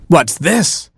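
high, swooping exclamation; startled cry. A narrator's reading. Baboon finding a chimp in the coffin, high startled cry. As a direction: cry out at a sudden discovery. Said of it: "cried the baboon".

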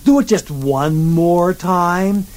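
princess voice. Acted. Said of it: "And Elizabeth says".

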